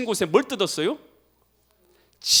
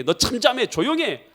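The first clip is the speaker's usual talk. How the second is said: mock scolding, higher pitched; retold rebuke; 6 semitones higher, 3 dB louder than usual. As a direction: act out a crowd hushing a beggar. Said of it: "잠잠하라고 책망한 것이죠". (꾸짖는 흉내)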